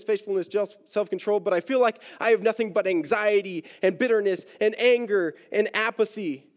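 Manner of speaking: preacher's impassioned voicing of a despairing believer; anguished self-reproach. Preacher voices Peter's pain at failing God, anguished self-reproach. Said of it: "the pain had to felt like more than he could take".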